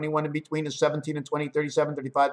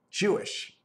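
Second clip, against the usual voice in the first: whispered, breathy word; 4 semitones higher, 5 dB quieter than usual. Acted. Musing on word roots, whispers the word. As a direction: drop it to a secret whisper.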